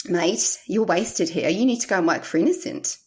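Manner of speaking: light imitation of a New Zealand accent, Kiwi vowels; dodgy New Zealand accent. Imitating a New Zealand friend's daily advice, in a light New Zealand accent. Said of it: "forgive my highly dodgy accent".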